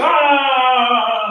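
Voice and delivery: high, drawn-out "aah" wail; retold scream, held high but not very loud; mock scream. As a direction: imitate her screaming in a long high cry. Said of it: "like this, started screaming".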